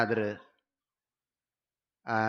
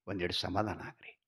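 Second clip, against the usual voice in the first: calming plea; 6 semitones lower, 7 dB quieter than usual. Retold or imitated. Wife calms angry husband.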